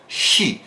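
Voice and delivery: whispered "She" with rounded lips; English she. Shown as a demonstration. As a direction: breathe out "She" with pouting lips. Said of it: "fazer um patinho com a boca".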